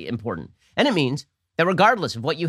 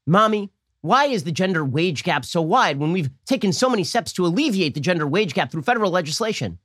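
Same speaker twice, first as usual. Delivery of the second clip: mock seven-year-old; 4 semitones higher than usual. A supposed daughter quizzing mommy on policy, mock child voice. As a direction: put on an earnest little kid's voice. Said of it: "My seven-year-old daughter came in".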